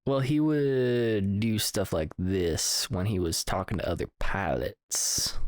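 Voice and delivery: southern drawl. Shown as a demonstration. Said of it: "southern drawl".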